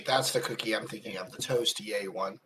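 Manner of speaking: soft whispered aside. Real, not acted. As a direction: murmur it to yourself. Whispered aside about cookie.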